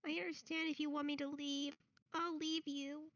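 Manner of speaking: sniffle through it; sniffling boy. Acted. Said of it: "he sniffs".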